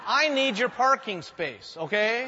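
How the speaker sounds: chuckling through a cheeky request; slow, amused tease with a laugh; laughing at his own blunt joke. Real, not acted. Pastor jokes to congregation.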